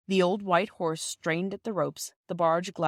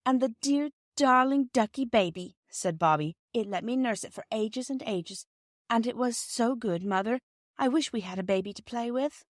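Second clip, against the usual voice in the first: put-on gushing girl; 5 semitones higher than usual. Bobby gushes over the baby.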